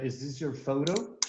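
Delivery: photo en americano con la T como R suave; American pronunciation. Shown as a demonstration. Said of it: "En pronunciación americana sería". (photo en pronunciación americana)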